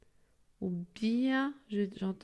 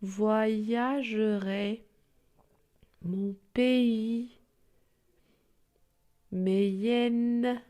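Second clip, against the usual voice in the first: each word stressed, slow and louder; louder stressed word list for pupils; stressing each word; 5 dB louder, much slower than usual. Shown as a demonstration. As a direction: hammer each y word, one by one. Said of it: "écoutez bien".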